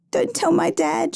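put-on high, anxious girl's plea; pleading. A narrator's reading. Injured girl begging her rescuer to keep it from dad, pleading. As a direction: beg in a small child's voice, pitched right up. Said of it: "she pleaded".

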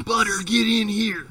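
slow loud high yell; mock-stern dog call. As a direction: order the dog inside. Calling the dog.

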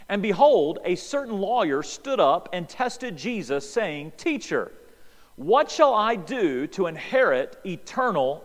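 measured, slowed reading of the passage; scripture reading. Acted. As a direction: read the verses out with weight. Reading Luke 10 aloud.

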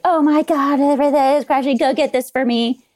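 mock panic. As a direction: play the panicking colleague in jest. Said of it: "people freaking out like".

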